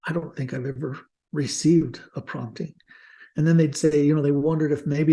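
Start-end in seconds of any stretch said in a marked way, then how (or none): 0.0-2.7 soft, halting confession with a touch of sadness; tearful confession, imitated. Missionaries confiding in their mission president, tearful, retold. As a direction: quietly imitate a troubled young missionary admitting failure. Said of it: "with tears in their eyes".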